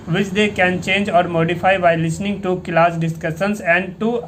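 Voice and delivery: steady textbook read-aloud; fluent reading aloud. Shown as a demonstration. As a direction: read the passage aloud smoothly, like a model reader. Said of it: "अब इसको तेज़ी से पढ़ना है".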